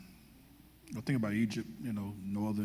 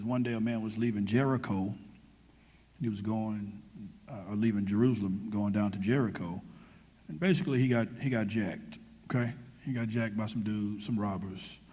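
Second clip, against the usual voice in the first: casual street retelling of the parable; lively, slangy sermon retelling; loose paraphrase. Pretend. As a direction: tell the story like a buddy would. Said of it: "the pastor's translation".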